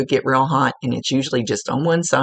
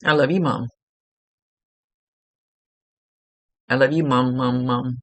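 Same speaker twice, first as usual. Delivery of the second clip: annoying cartoon voice. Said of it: "now he's talking like that little annoying cartoon".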